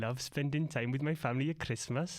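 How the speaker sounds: put-on Welsh accent. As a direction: lay on a Welsh lilt. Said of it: "Bonus points for best Welsh accent".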